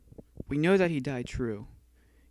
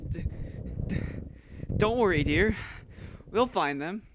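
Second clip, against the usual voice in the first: stuttering. Acted. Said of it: "I stutter that part".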